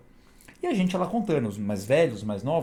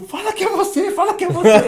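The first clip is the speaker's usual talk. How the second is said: high, loud panicked plea breaking into laughter; desperate terrified plea; 9 dB louder than usual. Retold or imitated. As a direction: beg in terror, half laughing. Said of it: "eu quase chorando, desesperado". (súplica desesperada e aguda, entre o pavor e o riso)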